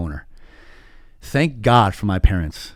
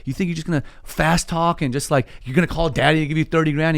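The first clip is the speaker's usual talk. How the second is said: dad getting mad; 5 semitones higher than usual. Retold or imitated. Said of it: "he just got mad".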